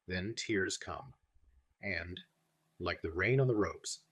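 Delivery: put-on old Dutch-accented professor, grave and earnest; an elderly Dutch doctor in broken English, sorrowful but wry; Van Helsing voice. Van Helsing explains his laughter to friend John, in a Dutch-accented voice.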